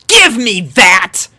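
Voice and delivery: slow, loud, high snap; snatch it back with force; angry demand. A narrator's reading. Dash grabs the ball from Sanada, loud and angry.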